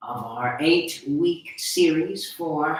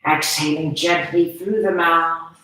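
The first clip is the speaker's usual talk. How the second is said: measured breathing instructions with long pauses; guided meditation. Acted. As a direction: guide them breath by breath, unhurried phrases.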